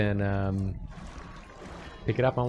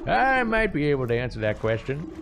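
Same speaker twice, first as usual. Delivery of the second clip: put-on old witch voice; 5 semitones higher than usual. Player witch character voice.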